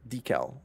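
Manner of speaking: "Decal" said DEE-kal, stress on the first syllable. Shown as a demonstration. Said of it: "my accent on the first syllable".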